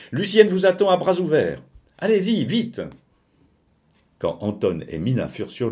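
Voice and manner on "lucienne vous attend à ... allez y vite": high, loud, jubilant call; excited announcement. Acted. Narrator hurrying the Silmans to Lucienne, excited shout. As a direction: call it out urgently, much higher. Gleeful announcement after bounding upstairs.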